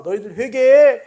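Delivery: a quick mock scolding call to repent; rebuking shout. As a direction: bark a prophet's rebuke at the crowd. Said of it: "질타하는 소리를 해야 되는데".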